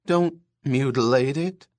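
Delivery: wheezy, pleading plea; wheezing, imploring. Acted. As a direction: beg breathily, wheezing. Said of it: "he said wheezingly, imploringly".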